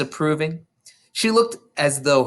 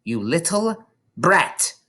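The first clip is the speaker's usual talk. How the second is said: stern scolding; 6 semitones higher than usual. Acted. Trunchbull scolding.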